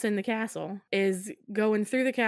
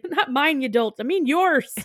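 high, loud comic rebuke; mock exasperation; 6 semitones higher, 7 dB louder than usual. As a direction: scold an idiot, hammed up. Husband correcting man, acted.

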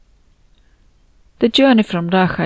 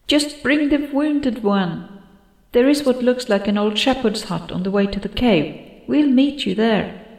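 whispery telepathic voice; 5 semitones higher than usual. Acted. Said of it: "came Andina's voice in my head".

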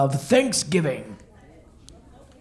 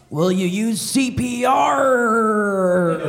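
laughing punchline; 2 semitones higher, slower than usual. Acted.

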